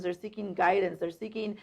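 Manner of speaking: ordinary delivery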